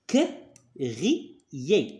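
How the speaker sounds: crier with ER said as é, drawn out. Shown as a demonstration. Father teaching his son: crier, ending E R sounded as é. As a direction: say crier slowly, ending on a clear é. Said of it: "E R se prononce".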